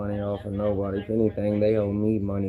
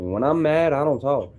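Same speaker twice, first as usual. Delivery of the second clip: higher, louder and pressed; firm declaration; 4 semitones higher, 4 dB louder than usual. Shown as a demonstration. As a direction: drive the point home. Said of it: "you would know if you watch me".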